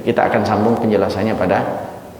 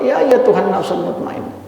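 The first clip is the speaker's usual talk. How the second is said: sweet call; 9 semitones higher than usual. Acted. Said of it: "Maka panggilan itu enak banget".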